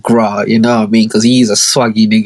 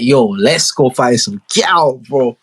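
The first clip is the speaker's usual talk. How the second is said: slower, drawn-out repeat of the quote; relaxed, unhurried echo of the invitation; slower than usual. Retold or imitated. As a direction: stretch it out as a lazy teen boast.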